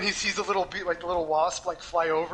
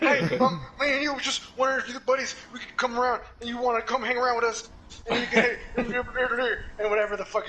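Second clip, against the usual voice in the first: high, loud, laughing hick voice; loud hillbilly impression; 6 semitones higher, 4 dB louder than usual. Dale awkwardly inviting the college kids, high loud laughing. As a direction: ham up the awkward redneck invite. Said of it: "he's just like".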